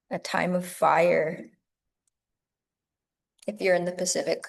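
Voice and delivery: measured meditation guiding with long pauses; guided meditation. Acted. Teacher guiding yoga teachers into meditation, unhurried meditative delivery. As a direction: lead them gently inward, phrase by phrase, leaving space between thoughts.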